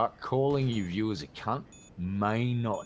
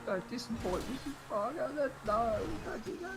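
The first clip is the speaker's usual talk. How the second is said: high mock whine; 12 semitones higher, 6 dB quieter than usual. Mock pleading about Mrs Parker.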